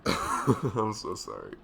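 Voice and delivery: slow, laughing through the apology. Real, not acted. Gamer laughing as she apologizes to viewers for rambling. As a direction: giggle out a slow sorry.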